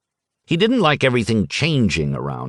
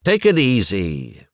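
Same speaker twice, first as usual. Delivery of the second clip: calming. Acted. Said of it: "dutifully stepped in".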